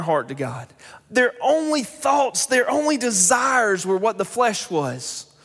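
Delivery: rising sermon cadence, building then dropping away; fervent pulpit preaching. Acted. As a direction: preach the wrath with weight, then let it fall. Preaching on God's wrath.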